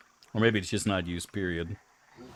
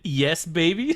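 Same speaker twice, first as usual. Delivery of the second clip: breathy lover voice, pitched up; sultry high voice; 6 semitones higher, 4 dB louder than usual. Acted. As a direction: purr it like a lover. Voicing the golem in romance.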